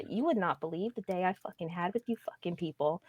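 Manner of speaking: Harley Quinn signing off to the chat. Pretend. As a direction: keep the cartoon sidekick voice going. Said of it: "while keeping a voice going".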